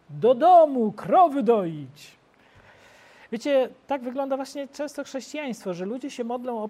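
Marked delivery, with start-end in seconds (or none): 0.1-2.2 loud call then a slow drawn-out finish; mock shout. Shrek's villagers fleeing home, called out loud and slow. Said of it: "a on krzyczy".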